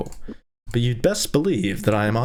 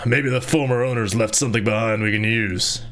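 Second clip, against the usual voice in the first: Gorth. Acted. Reader correcting himself to voice a companion in the tavern, put-on voice. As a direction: drop into a companion's level, altered voice. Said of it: "Gorth said".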